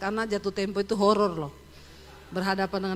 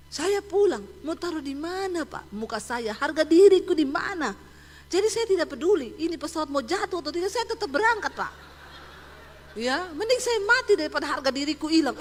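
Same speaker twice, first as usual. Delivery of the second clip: proud Medan man; 5 semitones higher, 4 dB louder than usual. Retold or imitated. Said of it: "Datang bapak-bapak orang Medan".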